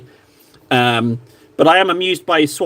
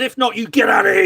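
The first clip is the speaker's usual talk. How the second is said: mock shout; 3 semitones higher, faster than usual. Mock rough welcome.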